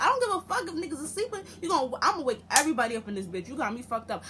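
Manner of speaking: put-on furious girlfriend yelling at the boyfriend; heated yelling. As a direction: tear into him, fast. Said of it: "I was so heated".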